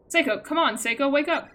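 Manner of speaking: urgently trying to wake someone; urgent calling. Acted. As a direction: call out to rouse an unconscious friend. Urging an unconscious friend to wake.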